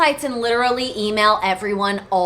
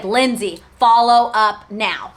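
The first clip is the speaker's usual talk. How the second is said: lightly voiced dad giving an order; slow, measured fatherly command, lightly imitated; firm dad; 3 dB louder, slower than usual. Dad telling daughter to follow up, mildly firm.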